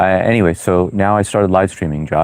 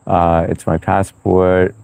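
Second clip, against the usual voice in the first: drawn out slowly, deadpan; slower than usual. Real, not acted. Explaining his profile picture to Blue, slow and deadpan. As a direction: let each word hang slowly. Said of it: "Wait, hang on".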